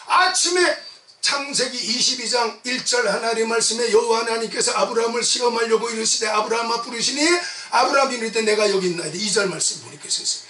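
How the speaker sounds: forceful scripture recitation; preaching. Real, not acted. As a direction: proclaim the command from the pulpit.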